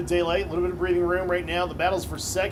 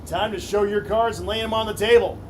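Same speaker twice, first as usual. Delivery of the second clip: rising, louder race call; building excitement; 5 semitones higher, 9 dB louder than usual. Real, not acted. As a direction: build the hype into the last lap. Final laps race call.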